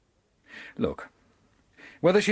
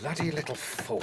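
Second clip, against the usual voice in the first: muttered grief; 9 dB quieter than usual. Acted. Finds prisoner dead.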